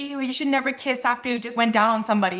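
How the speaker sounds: ordinary delivery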